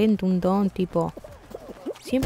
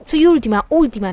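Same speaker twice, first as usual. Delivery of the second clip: frustrated; 2 semitones higher, 4 dB louder than usual. Real, not acted. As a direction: build from complaint to outburst. Se frustra al perder. (frustración que sube de tono)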